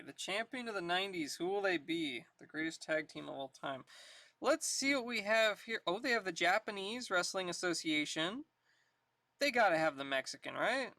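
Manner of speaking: usual speaking voice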